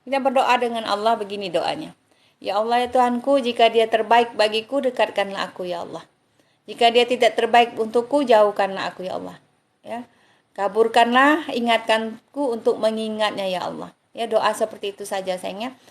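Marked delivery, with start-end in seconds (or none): 2.4-13.9 earnest spoken prayer, slightly raised; prayer recitation. Acted. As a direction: pray it aloud as if before God. The speaker recites a prayer for listeners. (doa yang dibacakan dengan khusyuk)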